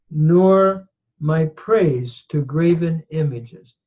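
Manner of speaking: nor my praise to graven images drawn out slowly; slow scripture reading. Shown as a demonstration. Teacher reading the verse aloud, slow. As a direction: read it slowly and solemnly.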